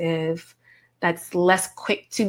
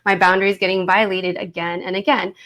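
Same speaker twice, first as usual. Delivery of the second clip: a sharp warning flick on the first word; irritated. Retold or imitated. To a person ignoring cues, a mildly irritated warning. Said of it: "it's going to start to shapeshift a little bit and let that irritant know".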